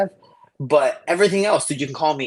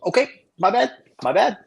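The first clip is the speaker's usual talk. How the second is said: much higher, nervous my bad; sheepish backing down; 8 semitones higher than usual. Tiny freshman grabbed by the big coach, high nervous apology. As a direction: back off fast like a scared kid. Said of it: "I was like".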